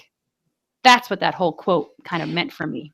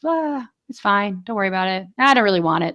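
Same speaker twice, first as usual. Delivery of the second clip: mock laid-back. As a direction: lightly imitate a laid-back kid. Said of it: "Ryan is very laid back".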